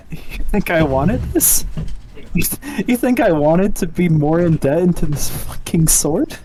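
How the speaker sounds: indignant. Acted. Player in character protests to the commander about the sword debt, indignant. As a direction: protest it, pitch lifting into disbelief.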